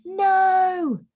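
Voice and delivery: loud, high, booming no; a big voice shouting in alarm; loud voice crying. A narrator's reading. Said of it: "A loud voice cried".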